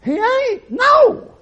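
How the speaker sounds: loud, high, firm denial; preacher yelling he won't die; forceful rebuke. Retold or imitated. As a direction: shout her down with certainty. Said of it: "I said".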